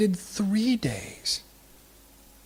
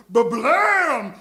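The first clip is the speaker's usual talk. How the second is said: fire-from-heaven blast; 4 semitones higher, 8 dB louder than usual. Retold or imitated. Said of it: "And God goes".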